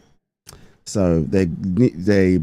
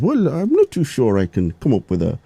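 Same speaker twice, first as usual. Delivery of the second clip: lightly attempted Irish accent, higher pitch; 6 semitones higher than usual. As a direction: have a shaky go at an Irish accent. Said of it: "it's my Irish accent".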